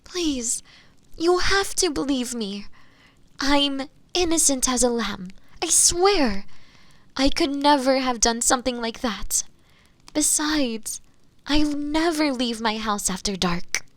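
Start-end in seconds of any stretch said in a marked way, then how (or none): 0.0-9.4 pleading. Acted. Accused begs the Inquisitor to believe her, pleading. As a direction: beg to be believed, pitch climbing on the oath.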